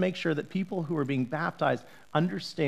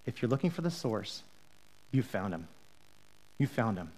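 lower, much softer, leaning in close; intimate leaning in; 6 semitones lower, 9 dB quieter than usual. Retold or imitated. Jesus leaning in to the disciples, soft and intimate. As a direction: draw them in with a hush. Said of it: "Jesus wanted to lean in".

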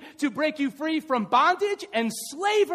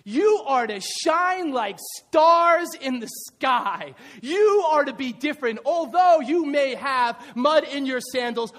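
full-force preaching; 3 semitones higher, 6 dB louder than usual. Acted. Pastor preaching loudly to the church about God's children. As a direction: preach it out to the congregation.

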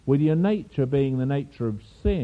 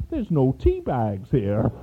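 lightly put-on sweet Irish maiden accent; a hint of a gentle Irish waitress's accent. Irish waitress telling guests the pot is empty, mild sweet Irish accent. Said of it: "in a sweet Irish maiden accent".

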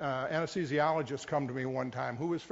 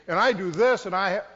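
louder, defensive voice protesting to the pastor; defensive congregant; 2 semitones higher, 7 dB louder than usual. Retold or imitated. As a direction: push back like a proud hard worker.

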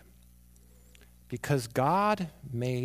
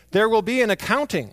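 loud, raised warning of judgment; angry Father; 7 semitones higher, 8 dB louder than usual. Acted. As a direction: lay down a stern fatherly warning. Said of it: "the Father does get angry".

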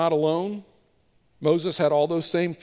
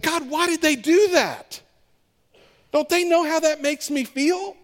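higher, hurt, pushed voice; student venting at God after hurt feelings; upset complaint to God; 10 semitones higher, 3 dB louder than usual. Retold or imitated. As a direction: whine at God in wounded anger. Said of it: "I'm asking God questions".

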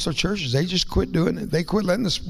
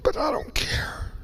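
crying whisper; 11 semitones higher, 5 dB quieter than usual. Real, not acted. Preacher thanking the congregation in tears, crying whisper. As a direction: voice gone, sobbing out a whisper. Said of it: "My voice goes away and I cry".

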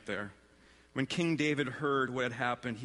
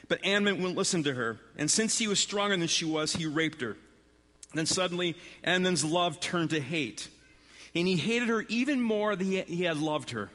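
higher-pitched, measured Bible reading; scripture narration; 7 semitones higher, 4 dB louder than usual. A narrator's reading. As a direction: read the story aloud to a congregation. Reads Bible story aloud to congregation.

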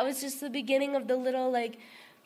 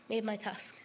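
fading into a whisper; 3 semitones lower, 9 dB quieter than usual. Real, not acted. Closing her testimony to the group in a fading whisper. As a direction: let the last words drop to a whisper.

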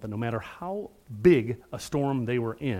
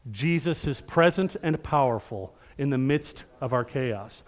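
call and response. Shown as a demonstration. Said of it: "Will you say it with me again?".

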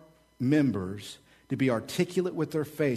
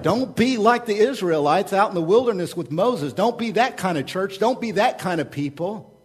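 exhorting; 6 semitones higher, 5 dB louder than usual. Acted. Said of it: "And, and Paul is like".

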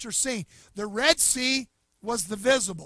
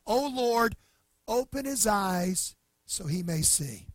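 quiet prayer; slower than usual. Retold or imitated. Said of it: "Elisha prayed this".

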